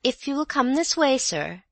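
high, prim and polite; prim maid. A narrator's reading. Maid leading the visitor, prim and high. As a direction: keep him at arm's length, primly. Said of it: "said Audrey primly".

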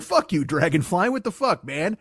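affronted picnicker scolding a bug; hammed-up annoyance, jumping in pitch; mock indignation. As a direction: shoo it off with acted outrage. Picnicker berates a dragonfly.

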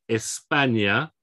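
"España" slowly, es-PA-nya with ny for ñ; careful Spanish "España", ny sound in the last syllable; Spanish pronunciation. Shown as a demonstration. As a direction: model "España" with a stressed PA and rising end.

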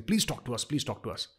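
soft, pleading plea, fading away; mock begging. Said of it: "today you're begging for talks".

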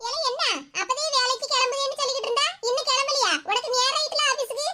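lightly voiced grumpy mother-in-law; a hint of a cranky old mother scolding her son. Mother-in-law nagging her son about work, lightly voiced.

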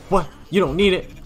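hard-sell the player like a crazed salesman; weird salesman voice. Acted. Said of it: "the weirdest character I've ever had to voice".

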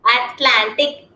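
Atlantic said slowly, syllable by syllable; teacher modelling Atlantic slowly; slow model word. Shown as a demonstration. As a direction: sound out Atlantic slowly for the child. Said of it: "teacher repeats model".

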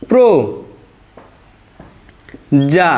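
"প্র", long pause, then "যা"; syllable by syllable. Shown as a demonstration. Teacher writing the word out, one syllable at a time. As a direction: separate "প্র যা" into pro and ja. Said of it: "আমরা লিখতে পারি প্র".

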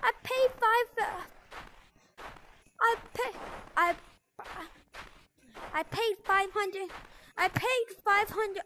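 high, cracking voice. Real, not acted. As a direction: let the voice crack upward. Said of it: "I'm having a voice crack".

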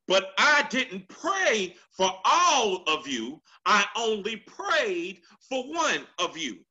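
slow, weighty "all of you" against "one of you"; slow emphatic retelling. Shown as a demonstration. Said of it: "say it one more time".

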